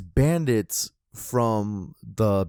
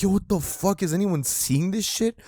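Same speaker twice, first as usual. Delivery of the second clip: higher-pitched mock disbelief; retold alarm; 8 semitones higher than usual. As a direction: act out seeing a fire nobody else notices. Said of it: "I'm like".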